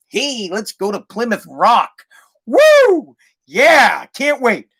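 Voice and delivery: hyped-up family man. Retold or imitated. Voices himself starting a family trip.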